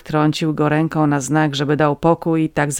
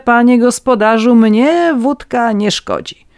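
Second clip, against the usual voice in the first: louder, eager voice of a cheap legal fixer; scheming petty scribe; 5 semitones higher, 4 dB louder than usual. A narrator's reading. Red-nosed man persuades the farmers, eager and louder. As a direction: sell the plan, pressing and sly.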